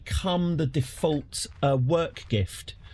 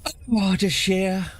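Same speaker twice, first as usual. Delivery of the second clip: villain's greeting; 7 semitones higher than usual. Acted. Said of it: "I won't do the accent".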